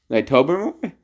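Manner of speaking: Tobermory tried out with a questioning rise; testing Tobermory like an unfamiliar word; unsure pronunciation. Real, not acted. Reading a news story aloud, unsure of Tobermory. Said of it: "I'm just gonna roll with it".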